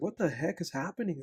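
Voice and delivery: mock bewildered, befuddled, confused outburst. Retelling being stopped by a stranger at the grocery store: imitating own befuddled reaction.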